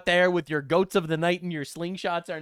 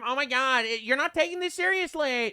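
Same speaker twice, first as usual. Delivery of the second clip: mock scold; 7 semitones higher than usual. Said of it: "because, um".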